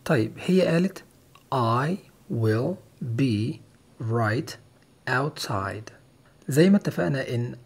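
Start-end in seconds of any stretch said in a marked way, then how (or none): 1.5-5.9 I will be right outside said word by word, slowly; careful dictation reading; slow, separated words. Shown as a demonstration. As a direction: spell out each word with pauses. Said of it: "بتتقال بسرعة".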